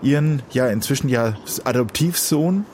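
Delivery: ordinary delivery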